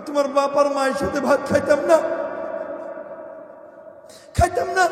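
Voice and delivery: loud acted refusal; wife's defiant outburst. Wife refuses to eat with her husband's parents, loud defiance. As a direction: refuse loudly, as the indignant wife.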